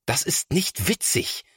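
mildly cross big brother; understated irritation; annoyed. A narrator's reading. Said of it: "sagt Thomas ärgerlich".

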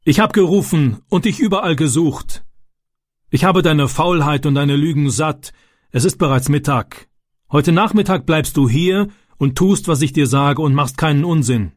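a hint of a fed-up father telling off his son; angry father.

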